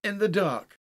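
high, loud, desperate pleading; broken-voiced terror. A narrator's reading. Haldane begging Winston for light in the dark, desperate and terrified. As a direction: build from pleading to a frantic cry. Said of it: "his voice broke, as a boy's does".

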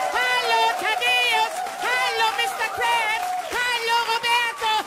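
high, loud cartoon sponge voice; squeaky excited SpongeBob; SpongeBob impression. SpongeBob eagerly answers Patrick, high cartoon voice. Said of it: "Ich kann nur den Sprecher gut imitieren".

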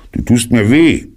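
Klage. Acted. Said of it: "schrie Puh".

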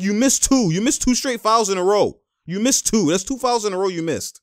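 mildly indignant mock protest; imitated arguing. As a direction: mimic a player pleading his case to the ref. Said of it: "you see him arguing with him".

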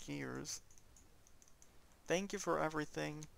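choked up, speaking gently and thanking him sincerely; emotional, holding back tears. Real, not acted. Student thanking his old para Mister Miranda, choked up. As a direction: talk through rising tears without breaking. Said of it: "I'm getting a little bit emotional".

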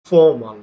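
ফর্মাল said as fomal, no r; native pronunciation. Shown as a demonstration. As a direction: drop the r in ফর্মাল. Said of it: "not formal".

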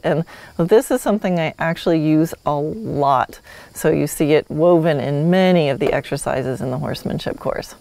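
normal talking voice

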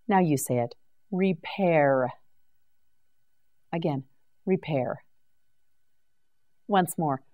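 usual speaking voice

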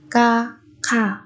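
"ka, kha" slowly, second syllable aspirated; sound change. Shown as a demonstration. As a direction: separate "ka" from a puffed "kha". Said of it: "Ở đây chúng ta có biến âm".

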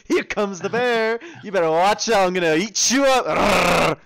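slow, loud, growly monster bear. Acted. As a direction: play the big hungry bear. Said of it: "that cringe shit that's coming up".

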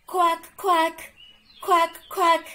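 loud, high quacking duck; loud playful duck voice; duck quacks. Acted. Host voices the duck guests.

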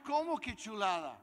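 loud, high-pitched disbelieving question; acted incredulity. Seller hearing his bad bike praised, acted incredulity. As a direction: throw the word back in disbelief.

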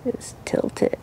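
whispering. Real, not acted. Adjusting helmet mount.

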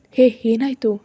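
jolted into asking what happened; alarmed. Acted. Woman asks her crying friend, alarmed and loud. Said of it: "ಗಾಬರಿಯಿಂದ ಕೇಳಿದೆ".

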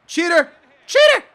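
high, loud outburst; accusing yell. Real, not acted. Gamer calls opponent a cheater, escalating yell.

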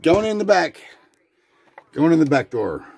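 high, loud playful announcement; playful announcing. Real, not acted. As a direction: sing it out like a game show host.

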